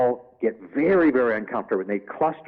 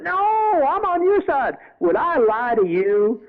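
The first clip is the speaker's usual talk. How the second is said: sly devil voice; 6 dB louder, slower than usual. Retold or imitated. Devil character protests innocence.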